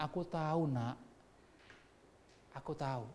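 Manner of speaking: soft, consoling fatherly voice; tender father. Acted. God as a father to his suffering child, softly tender. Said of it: "Bagaimana sih seorang bapak lihat anaknya".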